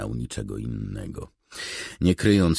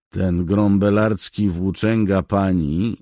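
raised, irritated rebuke; clearly annoyed; 7 semitones higher, 8 dB louder than usual. A narrator's reading. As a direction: scold her, loud and high. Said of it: "już wyraźnie rozeźlony". (z wyraźną irytacją)

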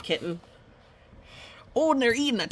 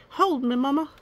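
put-on baby chick; 7 semitones higher, 3 dB louder than usual. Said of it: "this one's just like".

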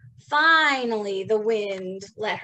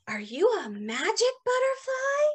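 ant voice; 11 semitones higher than usual. Acted.

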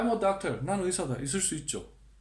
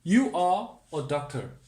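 slow model sentence; much slower than usual. Shown as a demonstration. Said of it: "are를 씁니다".

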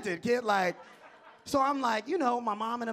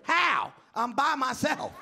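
indignant comeback; 4 semitones higher, slower than usual. Retold or imitated. Mad comeback to class trip line.

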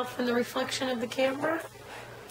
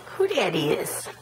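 whispering; 3 semitones lower, slower than usual. Real, not acted. Teasing whisper to baby.

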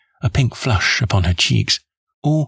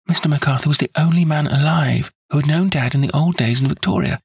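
put-on high, eager plea from a devoted young woman; earnest young woman; 6 semitones higher than usual. A narrator's reading. Miss Turner begging Holmes to clear James, eager and high. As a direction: insist on his innocence, breathless with hope.

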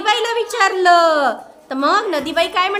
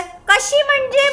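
higher, puzzled question; 8 semitones higher than usual. Acted. Mother and Mai together asking how, higher. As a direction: ask it as if confused. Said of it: "माई आणि आई एकदम म्हणाल्या".

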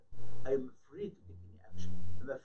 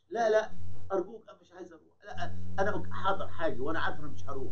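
higher-pitched, insistent begging to be let off; acted-out stubborn plea; pleading refusal; 5 semitones higher, faster than usual. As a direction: protest and beg not to go. Refusing the priest's invitation to church.

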